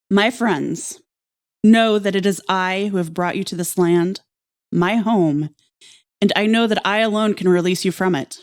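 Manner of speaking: dramatic letter reading. Pretend. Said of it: "your best dramatic reading of this".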